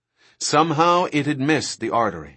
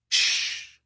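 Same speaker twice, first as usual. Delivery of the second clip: sharp unvoiced hush; urgent shush; 4 dB quieter than usual. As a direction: hiss everyone to silence. Hushing others, raptors below.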